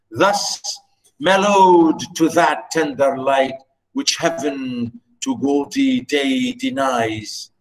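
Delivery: slow, measured poetry reading; poem recitation. Shown as a demonstration. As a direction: recite it tenderly, line by line. Teacher reciting Byron poem aloud.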